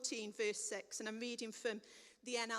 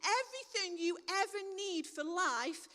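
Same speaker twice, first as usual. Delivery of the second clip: proclaiming Jesus; 3 dB louder than usual. Acted. Jesus voiced declaring.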